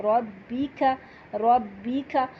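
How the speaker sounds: ربی کا with an aspirated kaaf; breathy kaaf. Shown as a demonstration. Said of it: "کاف زبر کو ہمز کے ساتھ". (ربی کا ہمز کے ساتھ)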